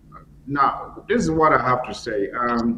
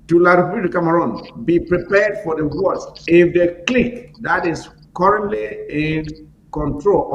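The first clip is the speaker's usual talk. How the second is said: stern warning; 4 semitones higher, 4 dB louder than usual. Real, not acted. Direct warning to citizens.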